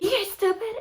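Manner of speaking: tag. Retold or imitated. Mom jolting awake, scolding daughters.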